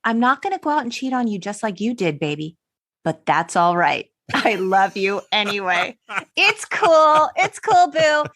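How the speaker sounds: a mocking pushover voice, rising; paraphrasing the singer with sarcasm; mock pleading. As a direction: make fun of his begging. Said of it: "He's like".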